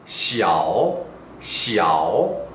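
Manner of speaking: "시아오" low and slow, dipping then rising; teacher's drawn-out low-tone "시아오"; Mandarin word demo. Shown as a demonstration. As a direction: dip deep on "시아오" and swing up at the end. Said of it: "예를 들어드리면 작다".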